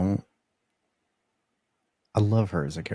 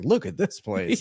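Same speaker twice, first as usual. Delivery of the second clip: imitating Ford; 9 semitones higher, 4 dB louder than usual.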